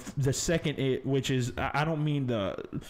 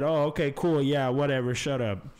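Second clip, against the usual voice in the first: dismissive reply; 3 semitones higher, 3 dB louder than usual. Retold or imitated. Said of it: "No, I said".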